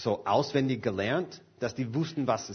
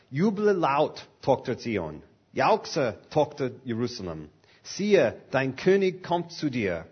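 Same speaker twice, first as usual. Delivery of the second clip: proclaiming scripture. Acted. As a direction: call it out like a herald. Reads Zechariah aloud.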